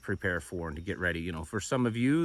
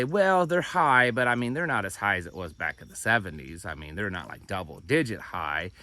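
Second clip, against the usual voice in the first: mocking official spin. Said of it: "it makes everyone feel a little bit better to say".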